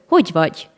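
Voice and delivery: Hogy vagy in Hungarian, both ending in gy; Hungarian gy sound. Shown as a demonstration. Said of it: "Diesen Laut findet man".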